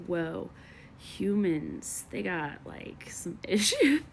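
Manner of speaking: a hint of a baffled alien sizing up humans. A lightly voiced alien marvelling at humans, mildly puzzled. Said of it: "Do you think aliens talk like this".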